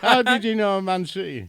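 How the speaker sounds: be thrilled they knew your team; amazed question. Real, not acted. Guest asks the host how he knew his club, amazed and pitched high.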